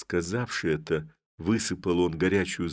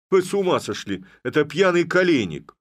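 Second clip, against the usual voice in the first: high, loud indignant yell; outraged yell; 10 semitones higher, 6 dB louder than usual. Acted. Village head to the constables, a high outraged yell. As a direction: blow up at their blunder. Head sees wrong captive.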